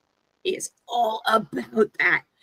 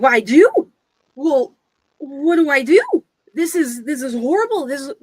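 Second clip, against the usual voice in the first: panicking pirate; 3 semitones higher, 4 dB louder than usual. Acted. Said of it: "And he's like".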